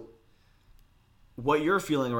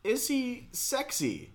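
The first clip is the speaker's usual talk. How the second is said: teasing laugh; 11 semitones higher, 4 dB quieter, slower than usual. Real, not acted. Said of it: "you need to answer honestly".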